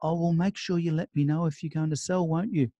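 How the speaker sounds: a little timid and apologetic. Retold or imitated. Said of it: "hands your card timidly and says".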